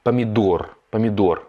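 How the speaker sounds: помидор with the stressed O said clearly. Shown as a demonstration. Teacher repeating помидор for learners. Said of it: "on insiste sur le O".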